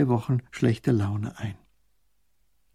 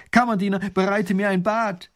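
haughty command; 7 semitones higher than usual. Acted. Duke orders his servant.

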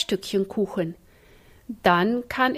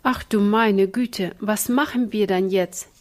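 mild wailing. Acted. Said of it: "Jammerte Ina".

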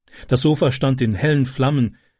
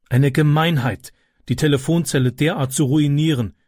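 scolding; 2 semitones higher than usual. Acted. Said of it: "schimpfte eine Frau".

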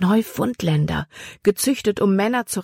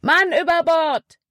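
much higher, louder alarm call; urgent shout; 12 semitones higher, 4 dB louder than usual. A narrator's reading. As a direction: punch Mann hard, falling. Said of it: "rief Caleb". (lauter, hoher Alarmruf)

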